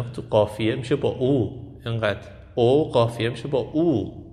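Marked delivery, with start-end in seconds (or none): 1.1-1.6 او as a pure OO, held; closed, rounded oo in او; long closed u. Shown as a demonstration. 1.9-4.2 first او a short O, last او a long OO; short o against long u. Shown as a demonstration.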